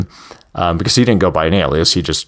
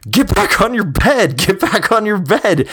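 imitated screaming; 13 semitones higher than usual. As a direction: yell the order in a raised, urgent pitch without full volume. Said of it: "they're screaming at him".

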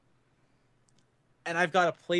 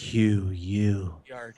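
creepy whisper; 7 semitones lower, much slower than usual. Pretend. Mock creepy whisper joke.

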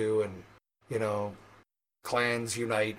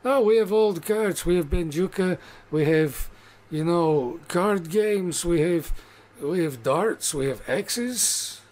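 eager orc barkeep; 3 semitones higher than usual. Acted. Barkeep eagerly tells the guest what games the bar has. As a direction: boast about the bar like a proud orc host.

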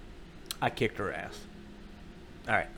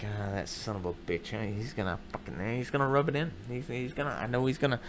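disgusted muttering; 2 semitones lower, 5 dB quieter than usual. Acted. Wife sure he'll rub it in, disgusted. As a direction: grumble it under your breath, softer. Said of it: "She had that disgusted look".

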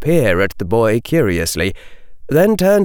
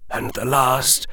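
put-on far older voice; 9 semitones higher than usual. A narrator's reading. Dumbledore telling Harry of lost students, aged and grieving. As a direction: sound ancient and weary, as if centuries old. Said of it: "his voice sounding far older than his normal tones".

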